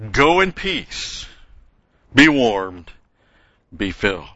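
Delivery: slow hollow blessing. Shown as a demonstration. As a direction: drag it out like an empty send-off. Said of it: "All three of them, imperatives".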